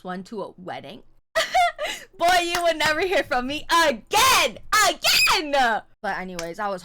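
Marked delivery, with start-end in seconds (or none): 1.3-2.1 high shrieking laugh bursting out; loud laugh. Real, not acted. Ranting to viewers, bursts into a loud laugh. Hypothetical outrage, big laugh. 2.2-5.8 loud, high, hammed-up declaration; mock outraged yell. Telling viewers off about a bad guy, loud mock yell.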